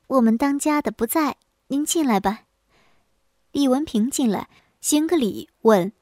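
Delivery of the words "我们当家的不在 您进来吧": smiling hostess. Acted. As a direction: welcome the guest with a light smile. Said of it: "满脸带笑地说". (满脸带笑地招呼客人)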